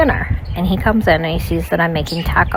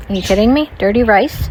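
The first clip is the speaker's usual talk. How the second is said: incredulous; 3 semitones higher than usual. Real, not acted. Incredulous at his request.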